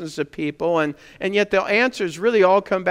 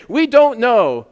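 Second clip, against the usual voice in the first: sheepish admission; 7 semitones higher, 9 dB louder, slower than usual. Retold or imitated. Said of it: "they come back to Jesus and they say".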